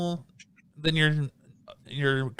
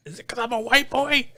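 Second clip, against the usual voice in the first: higher, laughing through it; laughing mock yell; 9 semitones higher than usual. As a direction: repeat the screaming man with a laugh. Repeats the imitation laughing.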